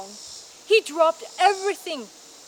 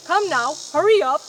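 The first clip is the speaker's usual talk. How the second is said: louder, hurry him along; urging; 3 semitones higher, 8 dB louder than usual. A narrator's reading. Father urging his son to hurry, raised voice. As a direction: push him to move.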